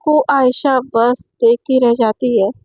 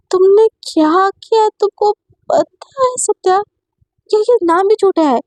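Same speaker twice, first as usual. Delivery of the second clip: accusing fury; 6 semitones higher than usual. Acted. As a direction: spit each word out slowly in outrage. Aisha confronts the deception.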